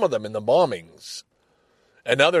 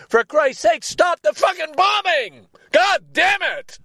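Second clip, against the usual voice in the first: real furious shout, pitched way up; shouting at the news in anger; angry outburst; 5 dB louder than usual. Real, not acted. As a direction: yell it out in rage.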